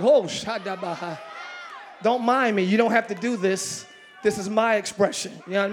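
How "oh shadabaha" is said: ecstatic tongues. Real, not acted. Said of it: "when I hear certain words, I'm like".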